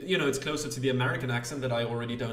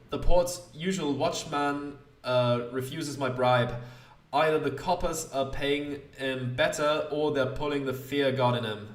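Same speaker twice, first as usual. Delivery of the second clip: emphatic, deliberate smuggler, lightly put on; lightly voiced smuggler; 3 dB louder, slower than usual. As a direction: complain as a hard-pressed smuggler, lightly acted. Plays Greenstreet the smuggler.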